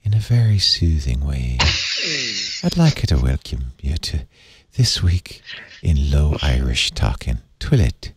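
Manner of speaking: Irish low-talking radio host; soothing Irish accent. Shown as a demonstration. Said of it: "if I did it in an Irish accent".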